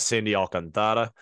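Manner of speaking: put-on Sandy Alcantara with a light Spanish-style accent, Alcantara with open ah vowels. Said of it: "I said it in a, in an accent there".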